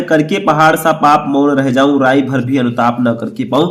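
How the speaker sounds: poem recitation. Acted. Rereads verse within question.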